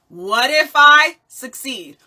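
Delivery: What if I succeed slow and loud, landing on succeed; drawn out and emphatic, hitting succeed; emphatic hope. Shown as a demonstration. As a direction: lean into "succeed" with conviction. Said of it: "flip it on its head".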